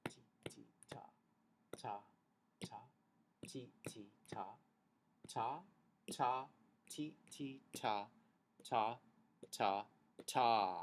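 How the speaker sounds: near-silent whispered ta and ti over patting; whispered rhythm. Shown as a demonstration. Teacher whispering rhythm while patting her chest. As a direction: breathe the syllables under the beat. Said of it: "but you clap it".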